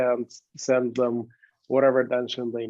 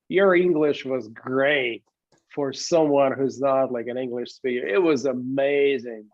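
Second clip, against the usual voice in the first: put-on American accent. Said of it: "Was that your American accent?".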